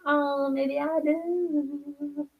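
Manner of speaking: slow, breathy aside under the breath; a slow playful whisper. Real, not acted. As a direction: drop to a hushed whisper. Reacting to red aura comment.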